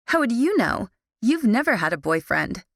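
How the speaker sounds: high, sharp snap; snapping. Acted. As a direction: bite back at her. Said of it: "she snapped".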